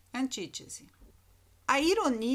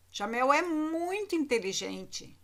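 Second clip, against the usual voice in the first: mild ironic tone; 3 semitones higher than usual. Shown as a demonstration. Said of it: "vêm carregadas de uma entonação diferenciada".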